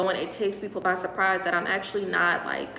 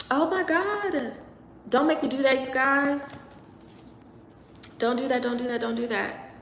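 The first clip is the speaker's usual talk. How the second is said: higher, tearful pleading; getting emotional; 5 semitones higher than usual. Real, not acted. Live host begging viewers not to make them cry, getting emotional. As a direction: plead through welling tears. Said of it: "I don't wanna get emotional".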